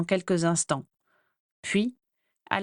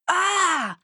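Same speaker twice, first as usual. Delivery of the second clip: cry of horror; 10 semitones higher, 3 dB louder than usual. A narrator's reading. Sees her ruined hair.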